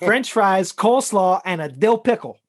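thick Chicago accent on each side dish. Shown as a demonstration. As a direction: say it like a Chicago diner regular. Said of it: "in my most, most Chicago accent".

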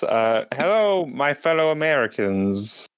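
talking through a mouthful; mouth full. Acted. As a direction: mouth full of jelly beans. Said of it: "my mouth is full of jelly beans".

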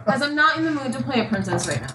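light quick cartoon princess voice; a hint of a dainty princess. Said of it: "It's a perfect princess impression".

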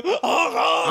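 high shouted honk out the window; silly clown. Pretend. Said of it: "sticking your head out the window".

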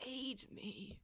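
small pleading whine; needy voice. Acted. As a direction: beg for help pitifully. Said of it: "it is my needy voice".

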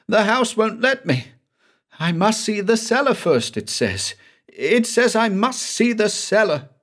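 high, pleading voice of a trapped man; desperate, reaching for a door that isn't there; panicking Banks. A narrator's reading. Man locked in a phantom house pleads in high panic.

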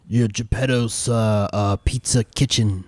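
lightly rasped shopkeeper voice through a door; a hint of rasp, cagey and slow; raspy voice. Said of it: "a raspy voice come from within".

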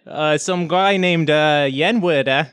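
halting attempt at a Kennedy-style Boston accent. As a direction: fumble through a presidential Boston accent. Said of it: "You're doing J F K".

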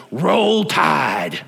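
put-on a proud fan's cheer in a Southern accent; big Roll Tide cheer. The caller signs off to the radio station with a cheer. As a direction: belt out the team cheer like a proud fan. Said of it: "gives a big old".

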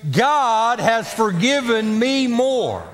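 "God" stressed, slow falling line; slow call to repeat. Shown as a demonstration. Preacher leading congregation in repeating, slow and stressed. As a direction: lead the congregation slowly. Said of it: "say it with me".

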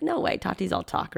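high mocking "No way" from a friend; teasing doubt. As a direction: play the doubting friend lightly. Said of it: "He's like".

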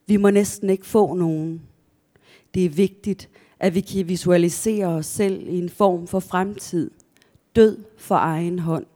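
measured story narration with deliberate pauses; literary reading. Acted. Author reading their own account to listeners, measured narration. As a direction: read the passage aloud, phrase by phrase. Author reads a passage aloud.

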